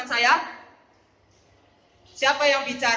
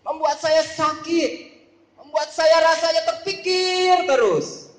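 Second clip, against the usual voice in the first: acted pondering that swells higher and louder; thinking aloud; 3 semitones higher, 3 dB louder than usual. Preacher models reading the Bible while thinking, increasingly troubled. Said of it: "waktu baca sambil mikir".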